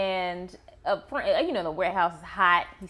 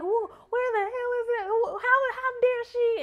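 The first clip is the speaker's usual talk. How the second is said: much higher, mock-furious aunt storming in; retold fury. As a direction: play the outraged aunt bursting into the room. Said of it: "She was like".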